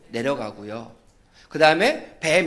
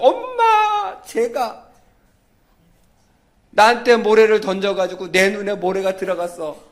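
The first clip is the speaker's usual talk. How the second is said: imitated crying; 2 semitones higher, 5 dB louder than usual. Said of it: "펑펑 울면서".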